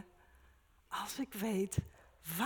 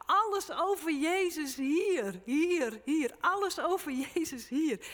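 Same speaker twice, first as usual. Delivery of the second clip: higher, louder fervent sermon voice; preacher urging the flock toward holy hunger; fervent preaching; 5 semitones higher, 7 dB louder than usual. Acted. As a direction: drive it home with rising zeal. Preaching at full force.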